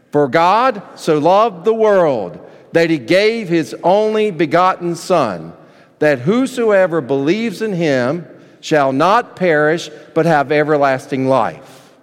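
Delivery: recited verse. Shown as a demonstration. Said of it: "in your best John three sixteen voice".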